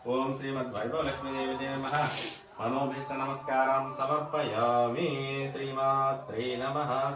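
sing-song prayer, last syllables held long; puja mantra recitation. Real, not acted. Devotee bowing to the goddess Lakshmi, chanted prayer.

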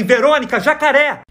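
acted yell. Swimmer calling to a friend in the lake, yelling a warning. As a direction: call out in mock panic. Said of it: "gritei assim".

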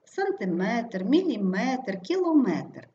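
сантиМЕТР, міліМЕТР, кілоМЕТР, stressed at the end; stress on МЕТР. Shown as a demonstration. Teacher giving examples of the rule, stress on МЕТР. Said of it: "наголос падає на метр".

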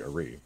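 "Ari" stressed on the second syllable, ah-REE; Slavic pronunciation. Shown as a demonstration. Explaining a Slavic name, "Ari" stressed ah-REE. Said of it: "the Slavic pronunciation would be".

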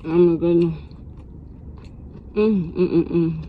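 savoring a bite; chewing food. Real, not acted. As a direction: mouth full while talking. Seen 1: Ate at -9; closed, working mouth while saying mm.

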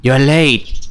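toned-down stern voice, no Batman growl; lightly voiced strict schoolgirl; strict girl. Shown as a demonstration. Player retries the voice for the strict girl, mildly stern. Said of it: "that's what I get".

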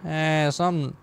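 loose, put-on redneck accent; badly faked country accent, rambling along. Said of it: "I also don't really know what this accent is".

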